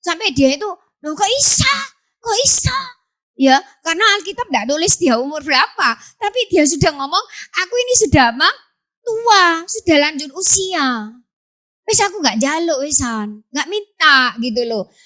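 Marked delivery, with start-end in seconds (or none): 1.1-2.8 high disbelieving cry; incredulous. Acted. Zakaria doubting the angel. 7.6-14.3 put-on old man protesting.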